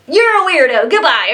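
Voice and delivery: mock the rude host hanging up; jerk radio host. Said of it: "and he's like".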